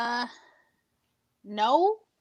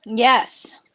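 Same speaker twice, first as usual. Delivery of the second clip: whispering; 2 semitones lower than usual. Acted. Joking whispered answers.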